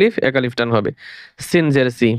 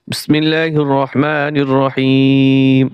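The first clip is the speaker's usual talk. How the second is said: recitation; much slower than usual. Acted. Opens the lesson with a formula.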